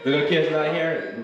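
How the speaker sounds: laughing while repeating it; amused, chuckling echo. Real, not acted.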